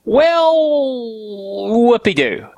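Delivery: a dry, mock-thrilled whoopee-doo; mock enthusiasm; sarcastic. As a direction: fake delight, plainly unimpressed. Sarcastic reaction to news.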